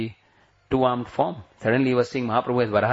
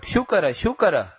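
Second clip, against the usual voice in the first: a raised, calling cry of the Lord's name; cried out; 6 semitones higher than usual. Acted. Preacher acting the Lord's cry of Shukara. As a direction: call it out high like a sudden roar. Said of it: "and he cried out".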